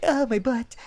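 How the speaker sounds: high, mock-pained moan; pained whine. Narrator rubbing a sore butt, mock-pained. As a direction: mildly whine about a sore spot.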